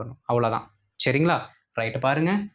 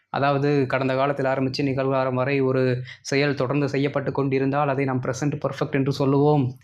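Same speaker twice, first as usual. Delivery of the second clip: textbook recitation. Shown as a demonstration. Teacher parroting a grammar rule to the class, monotone recitation.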